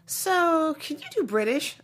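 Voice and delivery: quoting the audition question; casting director. Retold or imitated. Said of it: "they're like".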